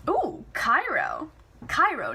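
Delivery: ordinary delivery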